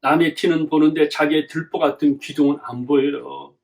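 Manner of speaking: normal talking voice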